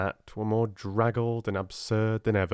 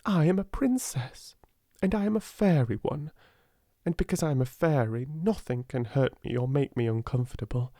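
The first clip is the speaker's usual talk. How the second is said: a lightly hushed, proud inner voice; princess self-talk; 5 semitones higher than usual. Retold or imitated. Sarah repeating her princess mantra, hushed and proud. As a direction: whisper it like a secret vow. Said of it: "I say to myself".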